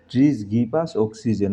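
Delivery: very slow, careful reading; slow dictation. Shown as a demonstration. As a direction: read the answer slowly for the class. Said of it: "reads answer sentence slowly". (ধীরে উত্তর পড়া)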